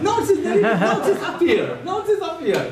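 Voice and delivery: chuckling while he says it; amused, laughing through the words. Real, not acted. Teacher laughing as he refuses a student's notes.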